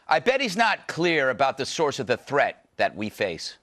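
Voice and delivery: host's crisp news-read delivery; measured topical monologue; scripted TV monologue. Acted. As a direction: read it to camera as an opinion segment lead.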